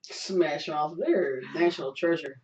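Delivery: usual speaking voice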